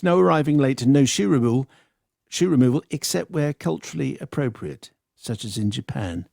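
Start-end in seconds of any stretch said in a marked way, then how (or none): 2.3-6.3 prim, oversensitive caveat voice; snowflake voice. Acted. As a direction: say it like a touchy snowflake. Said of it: "That's my snowflake voice".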